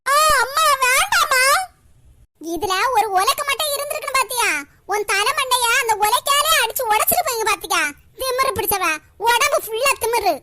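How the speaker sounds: grandma lashes out at her daughter-in-law; furious scolding. Acted. Grandmother beats her daughter-in-law while scolding her, furious and shouting.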